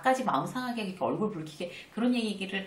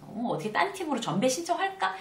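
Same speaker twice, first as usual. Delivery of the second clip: frantic fretting; 8 semitones higher than usual. Retold or imitated. Frantic imitated self.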